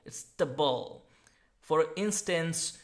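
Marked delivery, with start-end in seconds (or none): 0.4-1.1 TABLE said "tuh-bul"; weak "-table" ending. Shown as a demonstration. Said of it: "It's not table".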